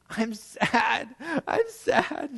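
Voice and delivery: high mock wail of a small child; imitated bawling. Preacher voicing his crying three-year-old daughter, high mock wail. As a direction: imitate a bawling toddler, pitch shooting up. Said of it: "She's bawling, bawling".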